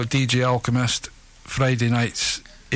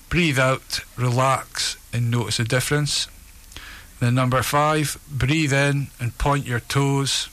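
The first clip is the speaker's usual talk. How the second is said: evenly paced relaxation script with pauses; guided relaxation. Acted. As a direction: guide them steadily through each breath and release. Reads a guided relaxation exercise.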